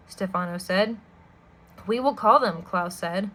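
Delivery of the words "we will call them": firm tone. Acted. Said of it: "in what he hoped was a firm tone of voice".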